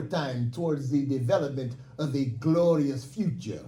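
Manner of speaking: lightly done French accent, hammed up for laughs. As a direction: play Charles de Gaulle with a mock French accent. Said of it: "allow me in my French accent".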